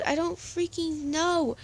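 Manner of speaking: high, loud acted outburst; angry yelling. A narrator's reading. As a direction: explode at a pushy friend, pitch climbing. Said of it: "Jack yelled".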